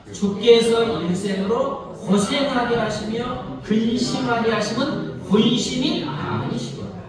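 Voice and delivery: slow, measured reading of the verse aloud; slow scripture reading. Shown as a demonstration. Pastor reading the verse aloud with the congregation, slow and measured. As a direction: lead the congregation through the verse slowly. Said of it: "읽어볼까요? 시작".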